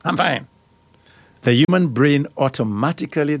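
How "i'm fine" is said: short, curt "I'm fine, I'm fine", a bit higher; clipped "I'm fine". Retold or imitated. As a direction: brush it off with a terse, clipped fine. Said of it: "saying a clipped".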